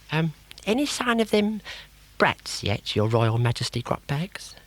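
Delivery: high, dopey crocodile sidekick; simple-minded toady asking his boss; dim crocodile. Acted.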